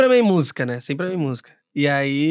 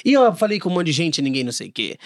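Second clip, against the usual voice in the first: whiny complaint; 7 semitones lower than usual. Retold or imitated. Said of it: "Você fica assim".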